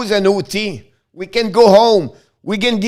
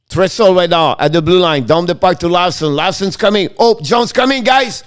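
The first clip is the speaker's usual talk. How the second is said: play-by-play. Acted. Live play-by-play call.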